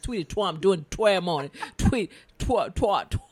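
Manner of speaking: loud, stumbling tongue twister; tongue-twister attempt. Shown as a demonstration. Host attempts a tongue twister about the tweet, stumbling. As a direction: trip over "twa-" and keep restarting. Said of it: "Say that fast".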